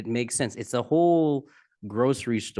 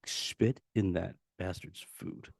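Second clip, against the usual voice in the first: muttered aside; 6 dB quieter, slower than usual. Retold or imitated. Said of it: "now they're gonna be like".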